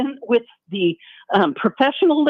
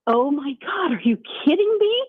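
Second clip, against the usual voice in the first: rising, outraged disbelief, climbing higher on kidding me; exasperated disbelief; 4 semitones higher than usual. Retold or imitated. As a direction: retell the moment you couldn't believe the play call. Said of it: "And so I'm just going".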